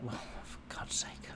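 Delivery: whispered under the breath; exasperated whisper. Retold or imitated. Man fed up with the barmaid's rules, whispered aside.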